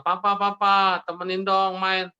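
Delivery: put-on child calling for Papa's attention; pleading child. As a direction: beg Dad to come play, drawn out. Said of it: "Anaknya bilang".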